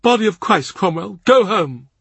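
the cardinal ordering Cromwell home, vehement. A narrator's reading. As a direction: snap it out, half-fond and fierce.

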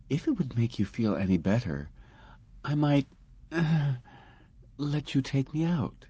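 receptionist. Acted. Receptionist flirts.

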